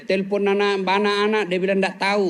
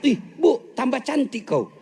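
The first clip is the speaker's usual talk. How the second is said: playful high flattering husband; 4 semitones higher than usual. Acted. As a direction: sweet-talk your wife with a lie. Husband flattering wife, acted quote. (suami merayu istri dengan nada tinggi)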